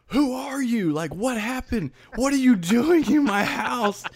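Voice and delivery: high-pitched reenacted panic; panicked confusion. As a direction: act out waking to a stranger, voice jumping high. Retelling waking confused with amnesia.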